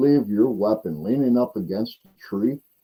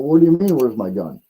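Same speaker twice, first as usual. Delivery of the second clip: confused outburst; 3 semitones higher, 5 dB louder than usual. Retold or imitated. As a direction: blurt it out, baffled and indignant. Confused dad retold in story.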